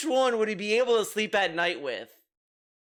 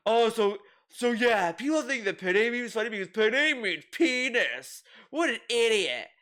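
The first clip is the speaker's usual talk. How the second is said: higher, scoffing impression of a streamer; mock indignation; 3 semitones higher than usual. Streamer mimicking DSP over the penne meme, mock indignation. Mocking DSP's indignant reaction.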